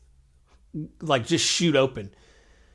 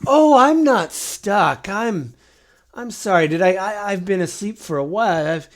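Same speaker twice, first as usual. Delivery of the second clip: a confused ancient, pitched up and fumbling; flustered mummy; 4 semitones higher than usual. Acted. Mummy answers player questions.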